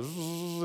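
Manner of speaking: high, soft buzzing idle; engine buzz. Retold or imitated. Mimicking a car stuck at high idle, soft buzz. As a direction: hum like an engine idling too high. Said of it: "when your car idle is stuck high".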